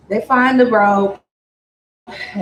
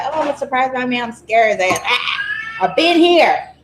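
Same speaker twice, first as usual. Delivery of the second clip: put-on giddy girl. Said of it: "You know how some girls, they get all giddy".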